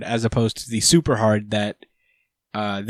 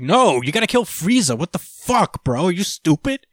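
higher-pitched, incredulous mock outburst; exasperated scolding; 6 semitones higher than usual. Elec corrects Gas on whom to kill, mock exasperation. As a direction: tell off a dimwit, hammed up.

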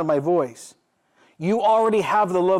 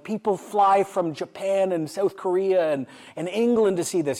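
exasperated father; 4 semitones higher than usual. Retold or imitated. Father telling his bored son people fly here, mock exasperation.

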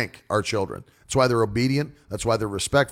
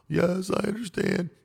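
put-on child answering; 6 semitones higher, 3 dB quieter than usual. Child answers father in story.

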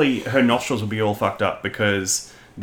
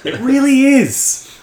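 laughing; 14 semitones higher, 4 dB louder, slower than usual. Real, not acted. Laughing along.

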